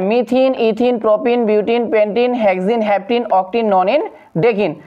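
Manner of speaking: "মিথিন", "ইথিন" ending in an -een sound; teacher listing "মিথিন" to "ডেকিন" with -een endings; ending pronounced IN. Shown as a demonstration. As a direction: recite each name with -een, as in "ডেকিন". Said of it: "এভাবে আমরা উচ্চারণ করব".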